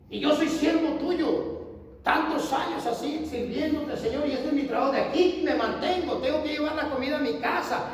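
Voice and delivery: high, loud desperate pleading to God; pleading prayer. Retold or imitated. Preacher retelling his prayer to God, high desperate pleading. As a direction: beg God for customers, voice straining.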